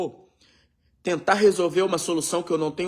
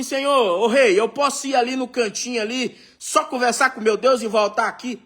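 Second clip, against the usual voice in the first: mock hesitant servant; 2 semitones higher than usual. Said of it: "falou assim".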